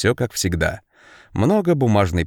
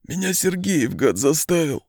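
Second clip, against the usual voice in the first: high, weepy complaint; tearful lament; 8 semitones higher than usual. A narrator's reading. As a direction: blame him through tears. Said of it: "плача запричитал он". (плаксиво)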